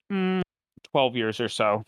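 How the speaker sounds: talking through hiccups. Real, not acted. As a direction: hiccup breaking the words. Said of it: "Excuse me, I have hiccups".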